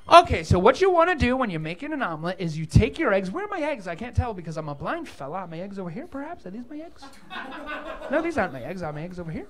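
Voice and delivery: a fumbling blind cook feeling around for his eggs; blind cook impression. Comic imitating a blind fella hunting for his eggs, mild groping voice. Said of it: "I do have one impression I can do".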